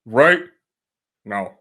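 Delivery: hammy fake Russian accent; bad Russian accent, barking orders. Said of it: "I can't do a Russian accent".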